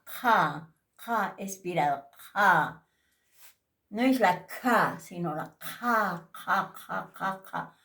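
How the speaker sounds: "ja" with a breathy outward h; aspirated ja. Shown as a demonstration. Teacher drilling aspirated ja for students, breathy. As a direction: push air out on each "ja". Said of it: "la expirada".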